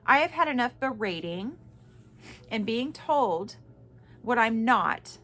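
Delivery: firm, pointed letter reading. Real, not acted. Mother reading her email to the narcissist, firmly. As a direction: read each grievance out with weight. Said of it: "I'm reading this verbatim".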